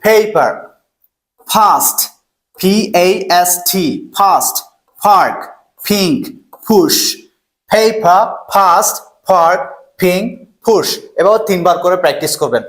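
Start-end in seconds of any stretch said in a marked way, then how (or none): 0.0-0.5 "পেপার" firmly projected with a puffed p; loud pronunciation model. Shown as a demonstration. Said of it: "Say loudly". 1.5-10.9 each word separate, "পার্ক" and "পুশ" opened with a puffed p; aspirated P drill. Shown as a demonstration. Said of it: "এটা উচ্চারণ হবে ফি".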